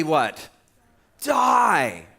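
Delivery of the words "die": shouted verdict. Acted. David's verdict acted out.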